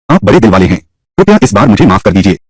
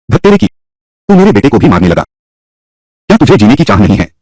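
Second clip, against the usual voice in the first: angry outburst; 3 semitones higher than usual. Acted. Father confronts his son's attacker.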